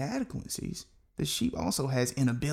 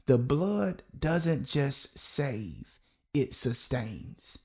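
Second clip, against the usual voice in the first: very slow, drawn-out "The blood doesn't just save, it sustains"; slow call and response; much slower than usual. Shown as a demonstration. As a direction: stretch every word so the congregation can follow. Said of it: "I want you to say that with me".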